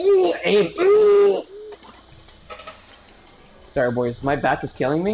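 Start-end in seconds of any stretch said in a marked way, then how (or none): 0.0-1.4 high loud amazed ooh; impressed ooh. Real, not acted. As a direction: gasp in awe. Exclaiming at shot.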